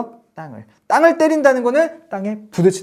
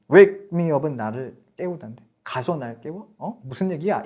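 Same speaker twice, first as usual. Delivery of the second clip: puzzled student; 3 semitones lower than usual. Retold or imitated. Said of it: "여러분들 헷갈려 하실 수".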